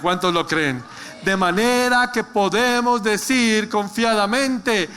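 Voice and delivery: slow, drawn-out scripture proclamation; emphatic preaching. Real, not acted. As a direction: proclaim each phrase firmly to the congregation.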